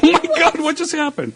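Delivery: mock shock. Retold shocked reaction.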